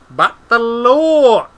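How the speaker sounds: high, loud, drawn-out plea; desperate. A narrator's reading. Treatle repeating his objection, desperate. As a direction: draw it out in a desperate protest. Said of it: "he repeated Treadle desperately".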